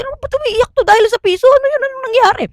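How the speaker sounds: high, fast bewildered questions; high mock-confused friends; baffled classmates. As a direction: ask high and fast in disbelief. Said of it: "Ganun daw sila magkakaklase".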